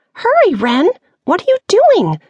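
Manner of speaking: high, loud urgent shout; urgent call. Acted. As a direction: call her up the ladder, fast and high. Urgent call during pirate attack.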